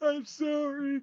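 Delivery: put-on sobbing through tears, high crying voice. Voicing a bound, terrified prisoner who starts crying: crying while speaking. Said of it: "starts crying and says".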